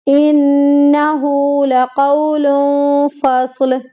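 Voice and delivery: slow melodic Quranic chant; Quran recitation. Acted. Teacher completing the surah once for students, melodic recitation. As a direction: recite the whole surah steadily, drawing out the long vowels.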